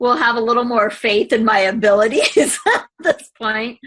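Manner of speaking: a teary laugh breaking into the words; laughing through tears. Real, not acted. Thanking her coach, laughing through tears. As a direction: laugh it out while welling up.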